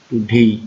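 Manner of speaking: টুডে with a firm push on ডে; stressed syllable demo. Shown as a demonstration. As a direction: lean hard on ডে in টুডে. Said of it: "এটা stress word". (টুডে-র ডে অংশে জোর)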